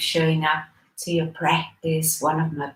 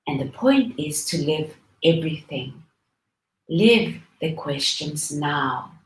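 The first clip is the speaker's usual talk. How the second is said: poem reading. Acted. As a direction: read it line by line, drawing out key words. Reads a Rilke poem aloud.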